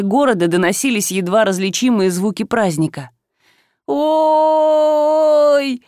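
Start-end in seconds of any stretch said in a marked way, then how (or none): 3.9-5.8 high wailing cry. Acted. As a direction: let out a staged wail. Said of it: "продолжила Василиса".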